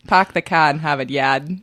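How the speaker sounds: put-on dropped R Boston accent. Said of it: "That's my Boston accent".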